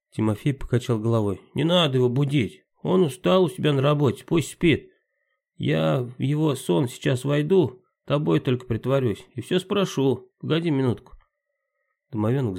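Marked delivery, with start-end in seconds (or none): 1.5-11.1 pixie. Acted. Domovoi Timka plans.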